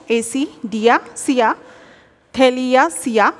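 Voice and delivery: অ্যাসিডিয়াসিয়া and থেলিয়াসিয়া said slowly and clearly; careful pronunciation. Shown as a demonstration. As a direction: model অ্যাসিডিয়াসিয়া, থেলিয়াসিয়া for the class. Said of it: "দেখো উচ্চারণগুলো দেখো".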